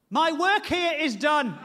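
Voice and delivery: slow, deadpan calm; very calmly. Retold or imitated. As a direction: say it like a job well finished. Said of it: "she just says very calmly".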